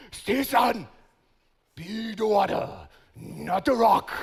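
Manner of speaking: lightly put-on wise kung fu master; a hint of a cliché martial-arts teacher; movie sensei. Pastor imitating his kung fu teacher mid-sparring, mock sensei. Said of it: "He doesn't talk like that".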